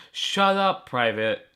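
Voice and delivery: captain shouting a private down; captain's bark. Acted. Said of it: "Captain Morrison said".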